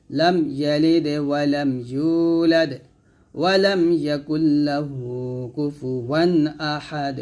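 slow melodic tajweed chant; Quran recitation. Shown as a demonstration. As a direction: recite the whole surah calmly. Full surah recitation. (পুরো সূরা ধীর সুরে তিলাওয়াত)

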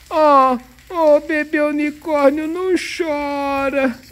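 dad calming a toy unicorn in a slow, tender voice; soothing. Acted. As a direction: hush the baby unicorn gently. Comforting the crying baby unicorn.

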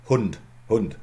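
Hund with a short clipped u. Shown as a demonstration. Lecturer demonstrating the German word to students, short vowel. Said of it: "Yeah, short".

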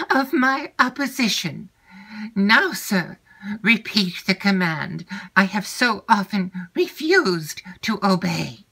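high, indignant wife's voice; defiant Madame Montoni. Acted. Aunt daring her husband before Emily, high and defiant. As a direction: fling the challenge at him, high and proud.

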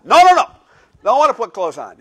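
put-on very loud, high toddler wail of refusal; cranky toddler. Toddler refusing to get dressed, loud high wail. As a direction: scream no like an overtired two-year-old. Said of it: "Could we take your jammies off".

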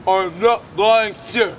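slow mocking imitation; mocking echo. Doubting man echoes the interviewer's denial, mocking imitation. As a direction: parrot the denial back slowly.

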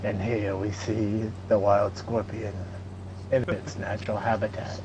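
nature documentary. Pretend. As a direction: narrate like a hushed nature show. Mock wildlife narration of scorpions.

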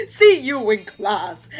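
puffed-up, self-important teacher imitation; pompous voice. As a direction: say it like a snooty schoolmaster. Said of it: "like, the most pompous voice".

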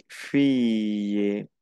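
fille said the French way, slow, like fee-y; French word fille. Shown as a demonstration. Teacher to Spanish-speaking students: fille said slowly in French. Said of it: "que es una chica o una hija".

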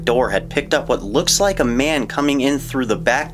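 measured voiceover storytelling; documentary narration. Acted. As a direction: narrate the footage calmly.

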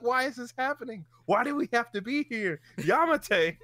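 high-pitched, hammed-up wail of protest; horrified pleading. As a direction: plead as if begging the scene to end, comically overdone. Acts out own horrified reaction to scene.

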